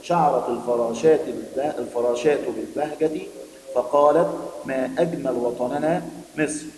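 slow, clear read-aloud for pupils; story reading. Acted. Teacher reading the lesson story to her pupils, slow and clear. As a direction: read the story slowly to the class, lingering on words.

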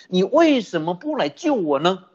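a hint of a suffering man's plea, rising at the end; pleading question. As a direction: ask for rescue with a mild, wounded rise. Retold plea of suffering man. (带点哀求的轻声质问)

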